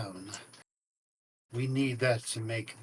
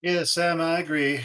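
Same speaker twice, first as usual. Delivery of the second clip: emphatic agreement; 5 semitones higher, 7 dB louder than usual. Acted.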